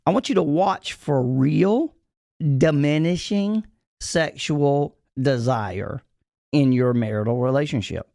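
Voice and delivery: slow, deliberate phrases with pauses between; real slow. Shown as a demonstration. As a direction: drag it out so every word lands. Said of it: "I'm gonna say this real slow".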